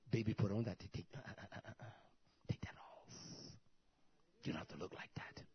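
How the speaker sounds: near-whispered aside, trailing very soft; soft, low private advice; hushed coaxing. Acted. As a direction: coax quietly, almost under your breath. Acted quote coaxing a young woman.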